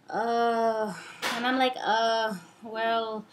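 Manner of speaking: hesitant, stumbling over words; stuttering, lost for words; stammering. Real, not acted. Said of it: "I was stuttering and stammering".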